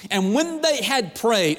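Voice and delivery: slow emphasis. Shown as a demonstration. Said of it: "repeated for emphasis".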